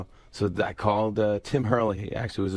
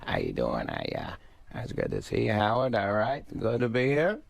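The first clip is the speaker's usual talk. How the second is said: Adam Sandler mumbling; 3 dB quieter than usual. Acted. Guest shows the host Sandler's first phase, mumbling. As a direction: mumble a casual hello. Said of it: "he just kinda mumbles".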